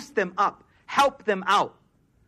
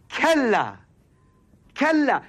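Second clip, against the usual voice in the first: firm, rising kalla; a touch of a wife's firm reassurance; forceful no; slower than usual. Retold or imitated. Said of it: "She says it with force".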